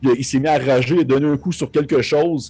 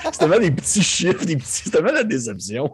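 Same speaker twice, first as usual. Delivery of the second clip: laughing; 6 semitones higher than usual. Real, not acted. Laughing at disappointing low dice rolls.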